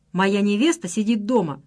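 ordinary delivery, nothing marked

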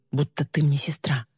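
whispered confession. Acted. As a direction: breathe it out as a secret. Tender confession to cousin.

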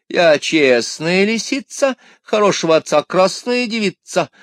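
high, sweet pleading vixen; coy fox voice. Acted.

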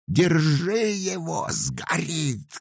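high, loud, slow shout. A narrator's reading. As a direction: yell to grab him before he burns. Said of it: "кричали мужики".

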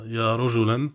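رجلًا said "rajulan", with final -an; accusative ending. Shown as a demonstration. Blind man calling to any passerby, accusative -an on رجلًا. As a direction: sound the -an clearly on رجلًا. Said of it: "يجب فيها النصب".

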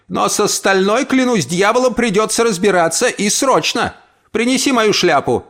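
put-on high, brisk old woman; determined old aunt. Aunt orders her hat fetched, brisk and determined. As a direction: take command.

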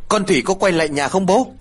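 high, loud urgent question; calling out loudly. A narrator's reading. Son arriving asks his father loudly. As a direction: call out anxiously to his father. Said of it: "Tân đã nói lớn".

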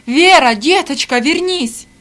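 loud, sugary pretend plea; fake tender call. A narrator's reading. Rosa calls after Vera before strangers, fake tender call. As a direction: call her back with false tears. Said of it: "притворным голосом она кричала".

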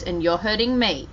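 understated gentle mom answer; gentle reply. Retold or imitated. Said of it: "she kind of just gently goes".

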